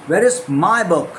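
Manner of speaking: slow, with is pushed; stress on is. Shown as a demonstration. Teacher drilling stress in a question. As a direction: crawl through it and lean on is. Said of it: "इस तरह से आपको करना पड़ता है".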